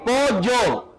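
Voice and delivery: "Pollo" as "po-yo", without l. Shown as a demonstration. Teacher contrasting with elle, "Pollo" as "po-yo". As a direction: use a plain y in "Pollo". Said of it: "Es diferente".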